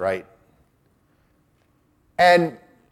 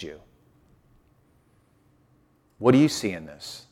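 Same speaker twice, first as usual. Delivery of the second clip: low, soft questions from a caring friend; gentle questioning; 4 semitones lower, 6 dB quieter than usual. Shown as a demonstration. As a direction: ask gently, leaving room to answer. Models a good friend's gentle questions.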